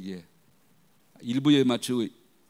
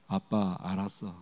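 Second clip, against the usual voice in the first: slow soft daughter's answer from the room; daughter's reply; 6 semitones lower, 6 dB quieter, slower than usual. Shown as a demonstration. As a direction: answer gently from behind the door. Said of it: "이 정도 톤으로 들-, 소리가 들렸어요". (방 안에서 느리고 조용히 대답하는 딸)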